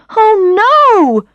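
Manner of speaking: high, loud wail of dismay; anguished cry. Acted. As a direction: cry it out as everything goes wrong. Drops her purse, coins everywhere.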